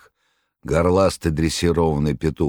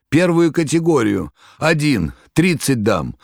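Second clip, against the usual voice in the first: much higher and louder, panicked; frantic shout; 8 semitones higher, 4 dB louder than usual. A narrator's reading. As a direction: yell it in blind panic. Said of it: "Римский крикнул".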